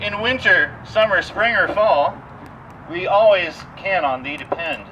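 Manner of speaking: hammed-up mock-solemn verse reading; theatrical poem reading to a tour group; poem recital. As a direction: declaim it like a grand old ode. Recites a comic pie poem.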